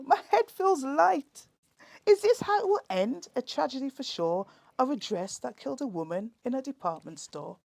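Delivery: hammed-up despair in the changing room; mock panic. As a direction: ham up the dizzy doom. Dramatic climax of poem.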